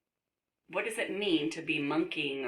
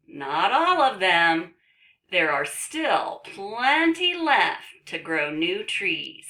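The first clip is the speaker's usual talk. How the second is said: emphatic, slow reassurance; reading to children; 4 semitones higher, 9 dB louder, slower than usual. Acted. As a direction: answer with slow, loud emphasis. Reads book's answer to children.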